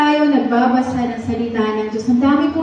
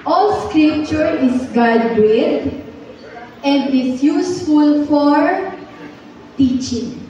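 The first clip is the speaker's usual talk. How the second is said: slow, drawn-out memory verse chant; slow group recitation; slower than usual. Shown as a demonstration. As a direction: recite each word slowly for the class to follow. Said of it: "sabay-sabay po tayong mag-memorize".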